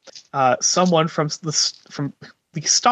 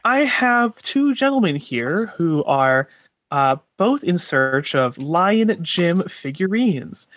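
walkie-talkie page. Acted. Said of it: "use one of the earpieces to call out".

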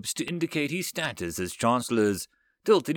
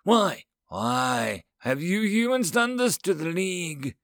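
higher-pitched, annoyed alien voice; frustrated; 7 semitones higher than usual. A narrator's reading. Alien counselor accusing humans over the League, frustrated. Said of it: "to indicate his frustration and annoyance".

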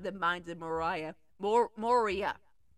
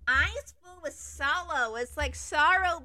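sorrowful; 5 semitones higher than usual. Shown as a demonstration. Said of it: "but even, like, sadder".

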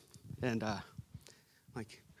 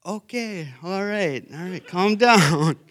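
wife calming him; 5 semitones higher, 6 dB louder, slower than usual. Retold or imitated. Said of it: "And she's like".

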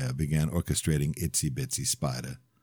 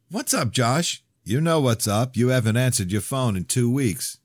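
raised, heated voice; angry confrontation; 7 semitones higher, 4 dB louder than usual. Acted. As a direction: get in his face, tense.

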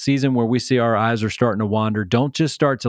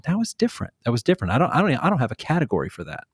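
puzzled hesitation; 3 semitones higher, much faster than usual. Acted. People walking away from a man of God, puzzled hesitation. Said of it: "causing a little bit of hesitation or pause".

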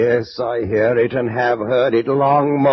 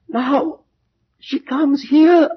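much higher and louder, terror breaking through; rising panic; 11 semitones higher, 3 dB louder, slower than usual. Acted. Roderick warning his friend she is coming, in rising panic. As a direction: let the fear climb into a cry.

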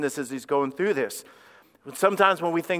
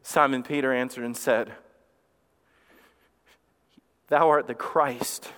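solemn scripture reading; 4 semitones lower than usual. Real, not acted.

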